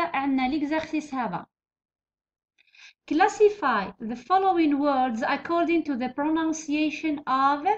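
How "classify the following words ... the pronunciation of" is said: very slow, word by word dictation; dictating slowly. Shown as a demonstration. Teacher reading the task to students, slow dictation. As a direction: spell the task out slowly for the class. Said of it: "teacher dictates exercise slowly".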